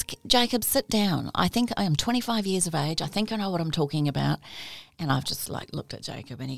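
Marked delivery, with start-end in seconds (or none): 0.0-4.4 mocking indignant teacher. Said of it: "and then he goes".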